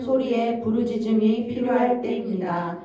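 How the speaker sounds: measured, formal read-aloud delivery. Real, not acted. Teacher reads the lesson text to her group, formal reading. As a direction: read the written teaching out evenly and firmly. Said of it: "이제 읽어보겠습니다".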